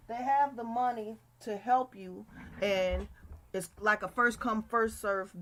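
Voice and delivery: words around a wad of gum; chewing gum. Real, not acted. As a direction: chew while you talk. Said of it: "I have gum in my mouth".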